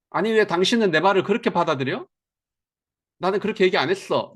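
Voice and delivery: lightly mock a husband defending himself; defensive insisting. Husband defending himself to his wife, mildly indignant. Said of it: "라고 제가 주장을 하면".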